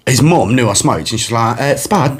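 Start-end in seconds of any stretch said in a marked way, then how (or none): 1.8-2.2 Spud said as "Spad" in Essex; Essex accent. Retold or imitated. Friend's mum calling Spud, Essex accent with a flattened vowel. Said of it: "so this accent's spot on".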